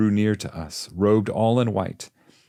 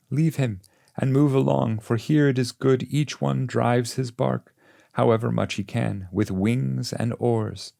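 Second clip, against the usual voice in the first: higher, guiding master urging him on; a wise guide, kindly but firm, pitched up; Virgil's voice; 6 semitones higher than usual. A narrator's reading. Virgil speaks, narrator voices him.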